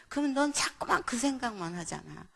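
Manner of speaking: mildly cross, reproachful questioning; retold angry scolding. Mother scolds child over notebook choice, mildly angry. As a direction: imitate an exasperated parent. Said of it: "제가 막 화가 나는 거예요".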